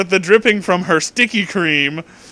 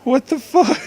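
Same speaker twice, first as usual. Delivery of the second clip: high incredulous cry; shocked disbelief; 10 semitones higher than usual. Real, not acted. Reading weird fanfic, stunned high what the fuck.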